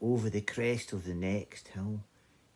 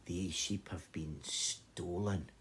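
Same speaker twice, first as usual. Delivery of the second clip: hushed shepherd; 2 semitones lower, 6 dB quieter than usual. Acted. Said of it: "said the shepherd".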